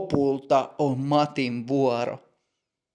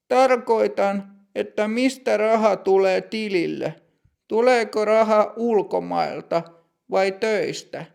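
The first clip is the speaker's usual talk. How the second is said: put-on higher, measured voice of a strict older clerk; stern bank clerk; 7 semitones higher than usual. Older bank clerk greeting customer Matti, stern and higher.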